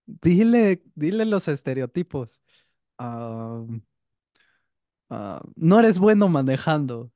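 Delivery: boss voice. Retold or imitated. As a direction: push him to say the stereotypes. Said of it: "Y ya le dice el jefe".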